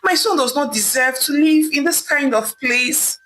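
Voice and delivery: pleading rising to a crying cry; mother begging Ivie, ending in tears; sad pleading. A narrator's reading. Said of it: "pleaded with her sadly".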